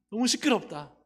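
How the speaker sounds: a touch of acted irritation; mock scolding. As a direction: imitate bystanders complaining about noise. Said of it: "꾸짖었어요".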